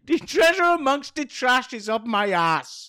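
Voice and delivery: hammy Irish folk voice; put-on Irish lilt; mock Irish accent. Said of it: "Is that Irish?".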